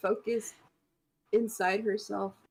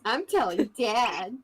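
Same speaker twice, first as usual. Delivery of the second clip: put-on childish threat; 4 dB louder than usual. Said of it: "there it is".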